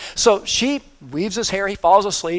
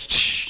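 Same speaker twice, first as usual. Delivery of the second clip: snapping sound effect. Retold or imitated. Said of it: "just like this again".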